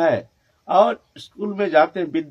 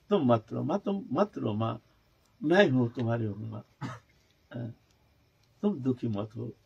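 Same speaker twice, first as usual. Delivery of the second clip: put-on low, soft child comforting his mother; tenderly consoling; 3 semitones lower, 3 dB quieter than usual. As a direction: gently plead with mother to stop weeping. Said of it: "आंसू पूछ रहे हैं".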